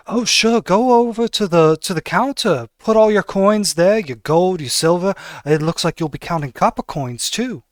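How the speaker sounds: hammed-up delighted shopkeeper; eager, greedy tailor. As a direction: rub your hands at the coins. Butler sends him to counter.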